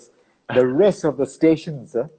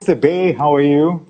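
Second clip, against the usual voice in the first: muffled behind a mask; through a face mask; 3 semitones higher, 5 dB louder than usual. Real, not acted. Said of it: "you don't mind my mask".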